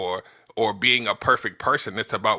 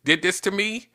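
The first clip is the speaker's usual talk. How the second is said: mock accusation; 7 semitones higher, slower than usual. Shown as a demonstration. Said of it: "once you say".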